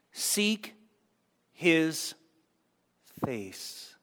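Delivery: soft, slow, sinking; hushed reverent fade. Shown as a demonstration. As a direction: let the words fade to almost nothing. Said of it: "Spend time with him".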